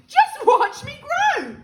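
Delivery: slow, high, loud crowing; boastful shout. A narrator's reading. Grandma showing off to George, boastful shout. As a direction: crow it out, stretching the words. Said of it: "she shouted".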